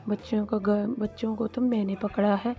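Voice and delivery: villain voice, bickering; lightly voiced cartoon villain; quarrelsome villain fish. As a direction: claim the credit. Kalu argues with starfish.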